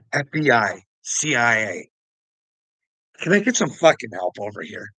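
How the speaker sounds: loud, pleading call to the FBI and CIA; mock shout for help. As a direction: yell it out like calling for help across a room.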